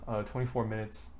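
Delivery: breathless after long talking; out of breath. Real, not acted. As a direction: talk short of air. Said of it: "I'm out of breath".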